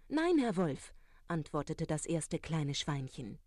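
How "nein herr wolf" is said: high, loud, firm no; pig's loud refusal. Acted. First pig answers the wolf at the door with a high, loud no.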